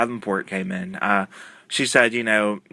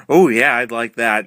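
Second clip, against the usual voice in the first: eager, louder agreement; mock sincere yes, a bit louder; convincing; 2 semitones higher, 6 dB louder than usual. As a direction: sell it like you mean it. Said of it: "in a very convincing tone".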